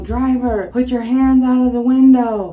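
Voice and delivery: mock megaphone announcement; cop on microphone. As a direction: imitate a cop ordering over a loudspeaker. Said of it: "The cop says on his microphone".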